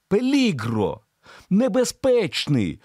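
high, slow near-shout; urgent warning on the edge of yelling; barely held back. A narrator's reading. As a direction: hold back a scream. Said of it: "ледве стримуючись, щоб не кричати".

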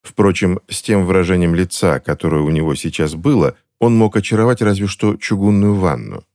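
ordinary delivery, nothing marked

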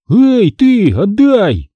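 high, loud protest; crying out. A narrator's reading. Boy whose camera was just snatched, crying out. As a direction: call out sharply for it back. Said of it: "вскрикнул я".

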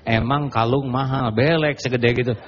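gloating. Retold or imitated. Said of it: "Nah, kita tuh bahagia".

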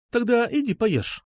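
a hint of a pouting girl teasing; lightly voiced sulky girl. A narrator's reading. Nastya voiced higher.

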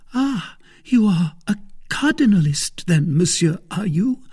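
high, challenging wife's voice; indignant cry. A narrator's reading. Wife accusing her husband of being cardinalist, indignant. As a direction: taunt him in indignant surprise. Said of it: "cried she".

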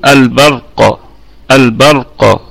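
البرق stopped on a still final qaf; demo of the stop. Shown as a demonstration. Tajweed teacher demonstrating the stop on البرق. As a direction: end البرق with a plain sukun stop. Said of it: "هكذا".

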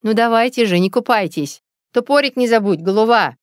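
hurrying urge. Acted. Mother hurrying father to the woods, impatient urging. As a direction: chivvy them out the door, impatient. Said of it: "мать поторопила отца".

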